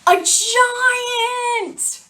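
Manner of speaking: high, loud gasp of a giant; dramatic reveal. Acted. Teacher reading to kids, high loud dramatic reveal. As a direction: build to the big scary reveal.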